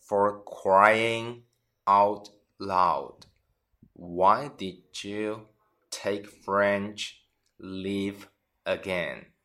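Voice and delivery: broken into slow chunks with pauses; slow teaching read. Shown as a demonstration. Teacher repeats example slowly for students. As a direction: spell it out slowly for learners. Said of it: "举个例子".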